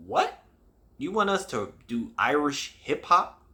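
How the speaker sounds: mock surprised question, high-pitched "what"; retold incredulity. Two kids doubting the music teacher's Irish hip hop idea, mock incredulous. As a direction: act out their puzzled disbelief, pitch leaping up at first. Retold reply to odd proposal.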